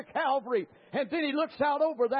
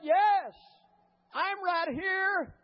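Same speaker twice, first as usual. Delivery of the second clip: higher, drawn-out answering call; calling back; 5 semitones higher, much slower than usual. Retold or imitated. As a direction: call slowly to someone lost, as retold. Retold rescuer answering from afar.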